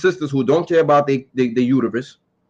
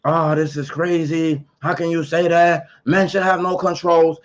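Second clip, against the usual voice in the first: mocking enraged women. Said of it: "they're gonna be so".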